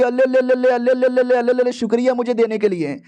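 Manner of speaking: put-on sugary girlfriend gushing over a gift; baby talk cooing. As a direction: coo at the bird like at a baby.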